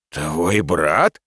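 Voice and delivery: incredulous, with a sharp rise at the end; astonished question. A narrator's reading. Boss learns the worker is a brother, astonished. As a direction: echo it back in disbelief, voice leaping up on the last word. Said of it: "Глаза шефа полезли на лоб от удивления".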